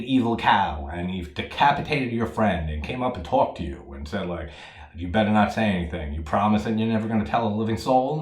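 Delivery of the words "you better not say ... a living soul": mock monster threat. Evil cow threatening the listener.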